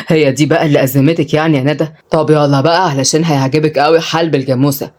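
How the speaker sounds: low voice with a laugh in it; amused teasing man. Acted. Oday to Nada about milking, amused.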